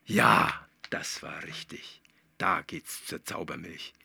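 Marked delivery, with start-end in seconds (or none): 0.9-2.0 unvoiced soft whisper. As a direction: whisper it like a secret. Leise Bestätigung. (geflüstert)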